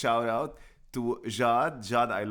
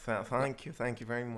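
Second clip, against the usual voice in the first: put-on southern accent; 3 dB quieter than usual. Thanking the co-host for the compliment, in a mild southern accent. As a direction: keep up a hint of southern accent. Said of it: "you sound very southern".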